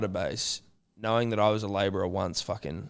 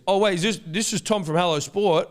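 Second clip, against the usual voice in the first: mock-excited fan voice, pitched higher; excited caller; 9 semitones higher, 5 dB louder than usual. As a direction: play the stoked fan recognising a host. Caller realises who he rang.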